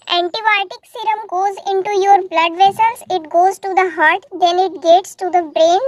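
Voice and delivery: very slow, spelled-out English explanation; slow explaining. Acted. Son patiently explains the injection to his mother, very slowly. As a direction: lay it out word by word like to a child.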